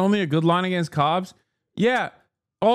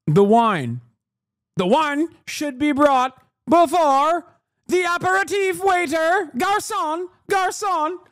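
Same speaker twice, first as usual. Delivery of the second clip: entitled diner; 2 semitones higher than usual. Retold or imitated. Streamer mocking an entitled restaurant customer, snooty. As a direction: summon the garçon like a pompous diner. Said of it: "some dickhead's like".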